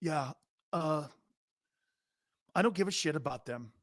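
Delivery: soft, offhand athlete impression; Baker Mayfield. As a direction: mumble it off quietly, not caring. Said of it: "here's Baker".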